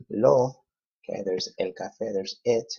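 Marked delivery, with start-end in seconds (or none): 0.1-0.6 lo said high and loud; stressed lo. Shown as a demonstration. Teacher showing where lo attaches. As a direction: punch the added lo. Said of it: "so we're gonna say pide".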